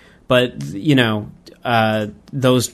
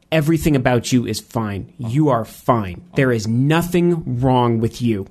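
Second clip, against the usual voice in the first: measured, emphatic reassurance; earnest reassurance; 2 semitones lower than usual. Retold or imitated. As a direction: retell it sincerely, weighing each word. Retold reassurance from the manga.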